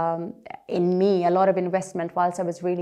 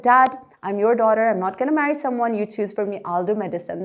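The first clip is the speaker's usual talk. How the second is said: mock-indignant daughter, voice raised; retold defiance; 3 semitones higher, 5 dB louder than usual. Daughter answering her dad over marriage, retold defiance.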